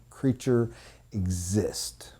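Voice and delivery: hushed breathy whisper of awe. Acted. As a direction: drop to a whisper on the last word. Awed climax of speech.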